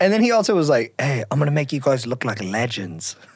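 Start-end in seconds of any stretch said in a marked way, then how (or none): 1.0-3.2 convincing, low-pitched put-on British accent. Speaker quotes a video maker who filmed the group, British accent impression. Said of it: "really good impression of a guy who does know how to do a British accent".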